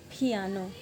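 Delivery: "फियानो" with a puffed PH for P; Korean pronunciation. Shown as a demonstration. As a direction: say "फियानो" the Korean way, opening on aspirated ph. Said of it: "पियानो को Korean में कहते हैं". ("फियानो" Korean उच्चारण में, शुरू में फ)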